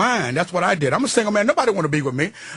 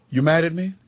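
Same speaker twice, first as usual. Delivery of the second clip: verbal judo demo. Shown as a demonstration. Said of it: "This is verbal judo".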